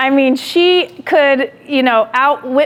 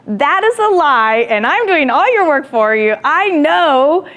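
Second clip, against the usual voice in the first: indignant retort; 4 semitones higher than usual. Retold or imitated. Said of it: "I'm like".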